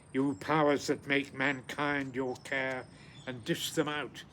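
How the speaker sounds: measured reading of the translation, fading at the end; poem recitation. Acted. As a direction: read the translation as a gentle recital. Reads English translation.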